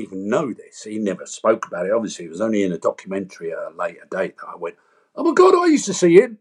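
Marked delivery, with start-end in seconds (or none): 5.2-6.4 retold astonishment. Realising who the psychiatrist was.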